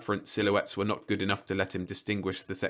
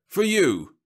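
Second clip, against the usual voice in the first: smooth robot salesman; 11 semitones higher, 8 dB louder than usual. A narrator's reading. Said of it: "Roby said".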